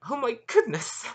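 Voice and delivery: high, loud burst of surprise; startled cry. Acted. Maria splashing into the lagoon, shrieking in surprise. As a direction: yelp as you hit the water.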